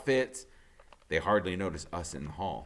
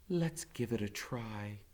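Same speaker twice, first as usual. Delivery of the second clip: quiet; 8 dB quieter, slower than usual. Acted. Mother's quiet answer overheard.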